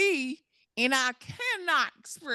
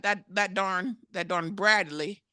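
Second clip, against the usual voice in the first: 1 Southern drawl; 2 semitones lower, slower than usual. Pretend. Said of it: "good old Texas Southern accent".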